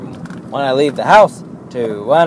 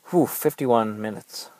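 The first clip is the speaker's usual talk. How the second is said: yawning through the words; 7 dB quieter, slower than usual. Real, not acted. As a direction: say it mid-yawn. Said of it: "I apologize for all the yawning".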